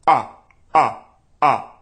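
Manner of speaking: loud, solid ah with tight cords; compressed ah. Shown as a demonstration. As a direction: press each ah firm and clean. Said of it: "Go back and forth between these two sounds".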